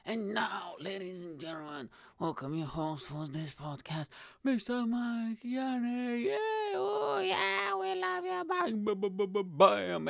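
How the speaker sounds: high, drawn-out announcer voice introducing the host; cheesy announcer build-up; mock announcer. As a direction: hype the host's entrance like a game-show announcer.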